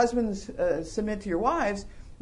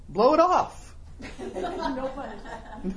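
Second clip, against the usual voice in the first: put-on kid voting, laughing; 3 semitones higher, slower than usual. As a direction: giggle it out like a kid getting away with it. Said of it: "Kids vote".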